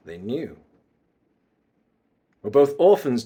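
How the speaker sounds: controlled villain accusation; measured bad guy monologue; mysterious bad guy. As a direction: confront an old rival with a restrained grievance. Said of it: "bad guy mysterious vibes".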